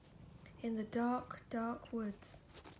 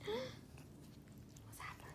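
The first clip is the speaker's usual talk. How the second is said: slow, hushed and higher; slow dramatic whisper; 12 semitones higher, 14 dB quieter, much slower than usual. Real, not acted. Parent whispering suspense to child. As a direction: draw out a breathy whisper.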